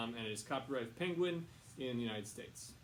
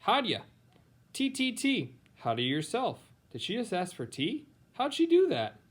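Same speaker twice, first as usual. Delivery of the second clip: put-on much higher, excited little baby voice; babbling toddler; 11 semitones higher, 12 dB louder than usual. Baby Helen copying adults' words, high babbling toddler voice. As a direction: squeal it like a baby copying grown-ups.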